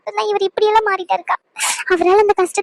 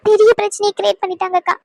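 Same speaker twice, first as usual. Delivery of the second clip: crying. Acted. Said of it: "இப்ப எதுக்கு வீணா அழுதுகிட்டு இருக்க".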